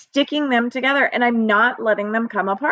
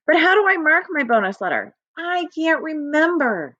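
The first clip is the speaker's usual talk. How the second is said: mock forgetful; 7 semitones higher than usual. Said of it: "tell their teacher how I mark".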